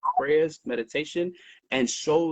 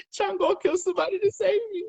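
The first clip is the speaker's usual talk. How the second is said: imitating wife. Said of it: "She goes".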